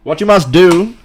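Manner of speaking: swelling philosopher's voice; Alan Watts impression. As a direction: proclaim it like a recorded sage. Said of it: "you nailed that".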